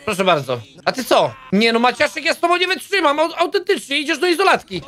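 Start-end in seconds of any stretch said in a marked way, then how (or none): 1.5-4.8 higher, exasperated telling-off; raised-pitch mock reprimand; mock scolding. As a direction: play the fed-up guard losing patience. Scolding a prisoner in the game.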